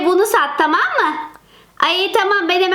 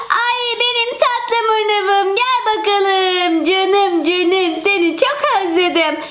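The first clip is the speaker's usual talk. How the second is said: slow cooing to cat; slower than usual. Acted. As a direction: sing it out to a found pet. Kedisine kavuşuyor. (kedisine kavuşan kız, yavaş ve şefkatli)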